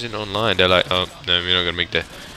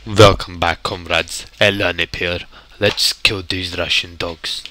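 put-on playful Russian-accented comrade greeting; mock Russian accent; 3 semitones lower, 4 dB louder than usual. Gamer hailing comrades to open the game, mock Russian accent.

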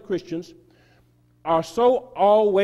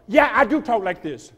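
louder, higher, leaning on "do"; emphatic insistence; 4 semitones higher, 5 dB louder than usual. Real, not acted. Repeating to the crowd that she talks like this, insistent. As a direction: repeat it to the audience, pressing harder.

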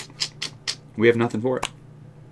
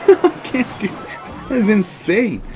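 disbelief; 11 semitones higher, 4 dB louder, slower than usual. Real, not acted. Disbelief at own misplay.

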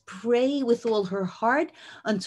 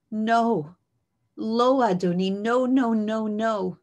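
louder, urgent no no no; pleading protest; 5 dB louder, slower than usual. Acted. Chana insists to the priest she is not drunk, louder pleading. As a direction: push back hard but respectfully.

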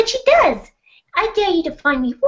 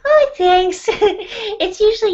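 a lightly sugary, polite character voice; sweet put-on voice; 5 semitones higher, slower than usual. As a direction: play a sweet, polite girl gently. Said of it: "when they talk like this".

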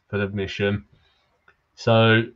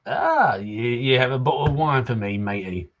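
lightly voiced grateful pirate accent. Drunk fisherman receiving his wine, light pirate accent. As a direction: put on a slight pirate accent. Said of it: "you gotta do that pirate accent".

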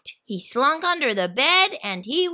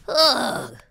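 snarling monster. Acted. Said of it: "Cynthia snarled".

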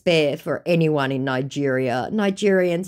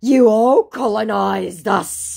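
loud, slow, higher-pitched accusation; mock angry; 7 semitones higher, 7 dB louder, slower than usual. Scammer accusing the Australian of colonising, mock angry. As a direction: act out an indignant grievance, drawn out. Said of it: "putting in an angry face".

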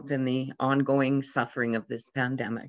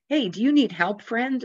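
calling out; 8 semitones higher than usual. Retold or imitated. Fisherman calls to drowning preacher.

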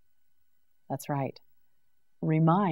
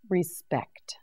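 whisper; 6 dB quieter than usual. Shown as a demonstration. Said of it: "whispered model word".

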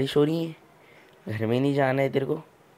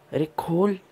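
higher pitched, impatient repeat of खोल with a rising end; insistent urging; 5 semitones higher than usual. Real, not acted. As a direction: push harder, losing patience. Urging the game villager again. (ऊँची आवाज़ में झुंझलाकर खोलने को कहना)

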